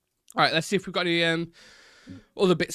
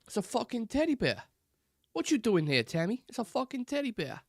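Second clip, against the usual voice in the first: much higher, put-on Boston accent; Mark Wahlberg; 11 semitones higher than usual. Streamer quoting a teddy bear film line, mock Boston accent. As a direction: do a high-pitched amateur Boston accent. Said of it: "instantly think of Mark Wahlberg".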